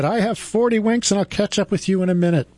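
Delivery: high, lazy cocky hare. Acted. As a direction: toss it off like a smug hare. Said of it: "he said".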